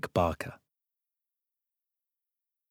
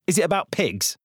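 put-on boy voice; 7 semitones higher than usual. Boy Blart voiced by narrator.

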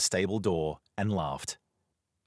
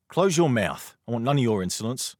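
louder, higher stern rebuke; rebuking; 7 semitones higher, 5 dB louder than usual. Acted. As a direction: cut the insolent boy short. Knight rebukes insolent boy.

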